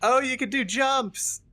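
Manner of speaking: high, slow, stretched-out exclamation; thrilled, drawn-out cry; excited discovery. Real, not acted. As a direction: crow with delight at a new trick. Discovers jumps in the game.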